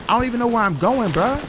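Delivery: fast, high flustered complaining; frantic. Real, not acted. Player lost while fleeing creatures, fast and frantic. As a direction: rattle it off high and panicked.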